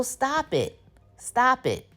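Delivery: high, emphatic command; exasperated scolding. Real, not acted. Viewer telling Fatima to quit it, exasperated. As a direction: order her to stop, pitch well up.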